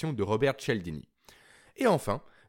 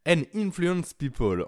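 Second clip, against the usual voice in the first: slow, heavily French-accented English; rough English accent; 3 semitones higher, slower than usual. Shown as a demonstration. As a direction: say the English title with a thick French accent, slowly. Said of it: "désolé pour vos oreilles".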